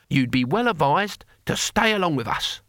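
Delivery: put-on high-pitched warning from an old warrior; Cohen, old barbarian. A narrator's reading.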